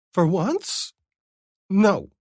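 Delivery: dry, teasing reply; Vivi's voice. A narrator's reading.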